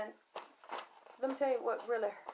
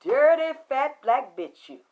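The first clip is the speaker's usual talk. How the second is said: yelled insults; 5 dB louder than usual. Retold or imitated. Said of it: "I say".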